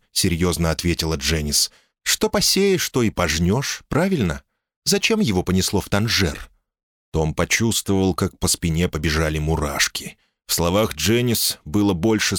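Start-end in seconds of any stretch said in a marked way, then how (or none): 2.0-6.5 lightly voiced wife, higher; calm, sensible woman speaking up high; woman's voice.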